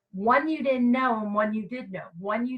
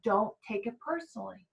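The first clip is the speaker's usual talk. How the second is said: calm reminder; 5 dB quieter than usual. Shown as a demonstration. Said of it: "you take a breath and go".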